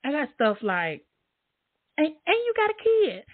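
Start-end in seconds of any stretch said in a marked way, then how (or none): 2.0-3.2 high squeaky mocking voice, way up; mock retort. Mimicking a critic, high mock-whiny retort. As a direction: parody the other person's whiny comeback.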